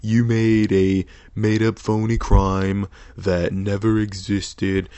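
a hint of Trump reading his tweet; Trump impression. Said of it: "Trump impression".

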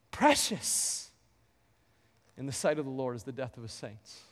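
tender, quiet echo of the verse; soft repeat. Acted. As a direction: say it again gently, almost to yourself.

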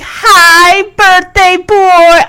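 high, drawn-out birthday hello; imitated gushing greeting; sweet greeting. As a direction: greet him sweetly, stretching the words. Voicing Julie's birthday greeting.

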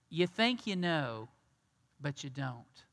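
soft, gentle correction, voice sinking very low; said very sweetly. Acted. Jesus gently tells the woman she's wrong, sweetly and softly. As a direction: let him down kindly and softly. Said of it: "he says it very sweetly".

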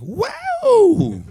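high squealed wow; mocking the shape of his head. Mimicking weird head shape.

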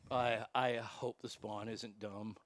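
soft, low worried pleading under the breath; hushed nervous plea to himself; anxious inner whisper. Retold or imitated. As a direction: mutter a quiet prayer that the kid won't swing. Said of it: "I'm sitting there going".

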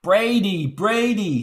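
high, loud squeal through a cigar; squealed correction. Acted. Reporter correcting operator's name, squealing high and loud. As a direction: correct her name sharply, teeth clenched. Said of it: "he squealed with the cigar planted between his teeth".

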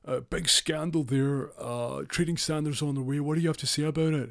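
high, loud newspaper reporter voice; pushy reporter. Retold or imitated. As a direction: shove a mic in and fire questions.

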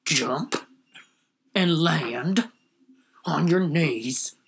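lightly voiced tough cop, very slow. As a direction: drag the order out like a cop. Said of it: "Here's my impression of every cop".

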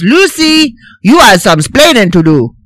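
put-on Cuban-accented splaining; mock Cuban accent; Ricky accent. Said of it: "no, he says".

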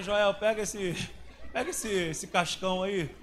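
asking the barber Joel for help, laughing; laughing request. Retold or imitated. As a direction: chuckle while handing him over. Joking about the dirty boy.

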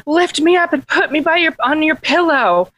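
high, insistent little frog; demanding frog. Acted.

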